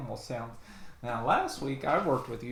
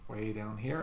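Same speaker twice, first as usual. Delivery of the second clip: lower, softer low voice; 4 semitones lower, 5 dB quieter than usual. Shown as a demonstration. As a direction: drop the voice way down. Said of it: "We also have low voice".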